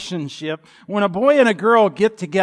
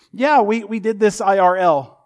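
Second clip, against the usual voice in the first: put-on higher, louder teen voice tossing off "I R L"; imitating a teen; 4 semitones higher, 5 dB louder than usual. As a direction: play a casual teenager. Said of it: "heard a teen ... say".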